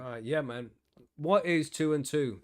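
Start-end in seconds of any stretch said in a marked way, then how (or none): 1.1-2.4 mock quiz. Mock re-education quiz, Orwell joke.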